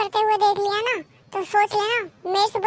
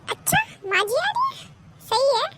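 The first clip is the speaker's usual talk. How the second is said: pleasant surprise; 5 semitones higher than usual. Acted. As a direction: take the news with a high, rising lilt. Son hears his mother is coming. (हैरानी भरी ऊँची आवाज़)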